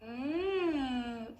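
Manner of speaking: warm-up hum through the straw; short straw phonation hum. Shown as a demonstration. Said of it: "this is what I would do to warm up".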